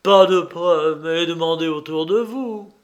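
Stéphane snaps back at his teacher, loud retort; violent retort. Acted. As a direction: throw it back at him hard. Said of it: "il répliqua violemment".

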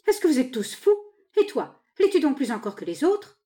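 high-pitched exasperated scolding; indignant questioning. A narrator's reading. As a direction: take them all to task. Mistress scolds the startled household.

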